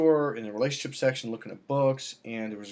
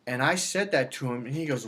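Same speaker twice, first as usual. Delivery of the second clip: ordinary delivery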